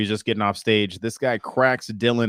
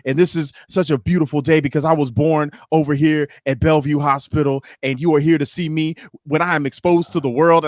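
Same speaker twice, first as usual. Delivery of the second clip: grandiose spoken word; 5 semitones higher, 3 dB louder than usual. Retold or imitated. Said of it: "And he was like".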